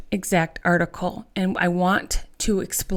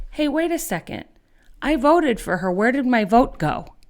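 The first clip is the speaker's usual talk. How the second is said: confused voter; 5 semitones higher than usual. Retold or imitated. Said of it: "who said".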